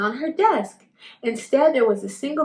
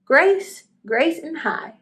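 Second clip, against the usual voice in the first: shouted; 5 semitones higher, slower than usual. Acted. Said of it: "shouted Ralph".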